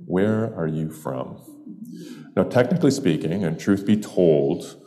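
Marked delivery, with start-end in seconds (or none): 0.1-1.4 slow, pondering repeat of the question; considered. Shown as a demonstration. Storyteller inviting listeners to consider the question, slowly and thoughtfully. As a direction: weigh each word slowly, for consideration. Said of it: "Now consider that for a moment".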